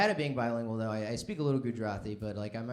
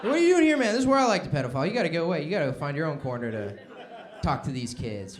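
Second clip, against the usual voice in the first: territorial creep; 2 semitones higher, 8 dB louder than usual. Acted. Voiced pedophile shooing a rival.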